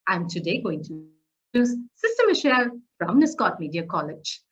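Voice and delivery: fast but crisp introduction; brisk, clear delivery with no rushing; quick and clear. Shown as a demonstration. Trainer shows students the right pace, quick and clear. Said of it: "I was quick, but at the same time, I was very clear".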